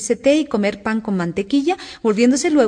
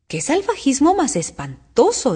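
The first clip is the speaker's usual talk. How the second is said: high, slow, appalled; mildly aghast storybook voice; shocked exclamation; 6 semitones higher, slower than usual. A narrator's reading. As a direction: draw out the horror.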